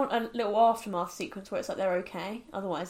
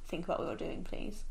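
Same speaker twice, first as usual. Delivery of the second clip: teacher voice; 2 semitones lower, 8 dB quieter than usual. Retold or imitated. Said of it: "in my teacher voice".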